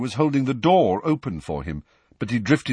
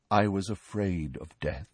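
softly; 2 semitones lower, 6 dB quieter than usual. Acted. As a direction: confess it softly. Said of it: "said Nick softly".

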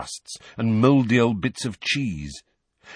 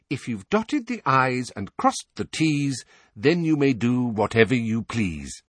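happy diary voice; 3 semitones higher than usual. Acted. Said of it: "where it said happily".

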